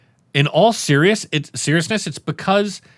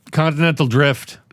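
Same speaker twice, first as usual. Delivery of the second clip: flat Harrison Ford line. Retold or imitated. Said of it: "Harrison Ford delivers it just like a".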